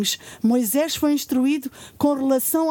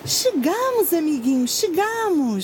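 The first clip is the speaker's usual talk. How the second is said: excited; 3 semitones higher than usual. Acted. Announces arrival in Egypt.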